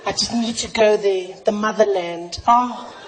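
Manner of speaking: hushed swooning with big sighed ohs; dreamy longing. Acted. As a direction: yearn reverently, swelling on each oh. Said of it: "South Africa's like".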